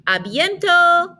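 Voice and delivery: "A bientôt" held high, ending in O; silent final T. Shown as a demonstration. Teacher models "A bientôt", slow, no final T. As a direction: draw out "A bientôt" to an open O. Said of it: "we're not pronouncing the T".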